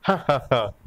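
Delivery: acted "ha ha ha" laugh; amused burst of laughter. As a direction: laugh off a silly mistake. Laughing after the tail remark.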